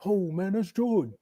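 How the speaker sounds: a light Kevin Garnett impression, starstruck; lightly voiced young Garnett in awe of his idol; Kevin Garnett accent. Player imitates Garnett seeing Jordan, light starstruck impression. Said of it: "That's my Kevin Garnett accent".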